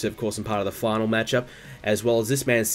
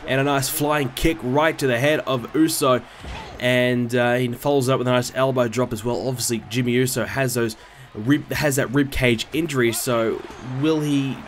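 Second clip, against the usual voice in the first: live ringside play-by-play; wrestling commentator; 3 semitones higher than usual. Acted. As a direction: call the match like a TV announcer. Live play-by-play of game match.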